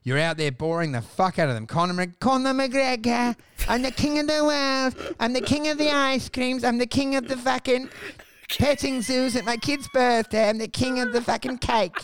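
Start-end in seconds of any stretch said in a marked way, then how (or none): 2.2-11.9 mocking Irish brag, a bit higher; hammed-up Irish king boast; half-hearted Irish accent; bad Irish accent. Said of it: "I can't even do the accent".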